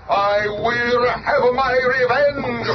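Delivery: slow, high and menacing, every word spread out; vengeful vow. Acted. Submariner swearing revenge on the Fantastic Four, slow and menacing.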